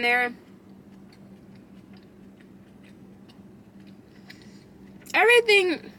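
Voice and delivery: chewing while talking; slightly muffled words; mouth partly full. Real, not acted. Seen 3: Bite taken before; cheeks and lips show chewing early, then clear speech.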